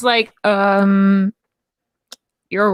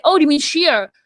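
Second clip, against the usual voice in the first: quoted coworker; 3 semitones higher than usual. Retold or imitated. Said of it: "She's like".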